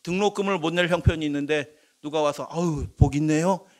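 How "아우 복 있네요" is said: mock cheery blessing. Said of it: "이렇게 얘기하면".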